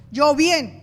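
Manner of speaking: falsely bright fine said loud; a forced cheerful answer; fake cheerful. Shown as a demonstration.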